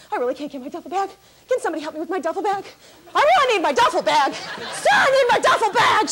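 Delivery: panicky demand. Retold or imitated. Panicking seatmate begging for her duffel bag, rising to a yell. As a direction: start pleading, end yelling. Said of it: "getting a little animated".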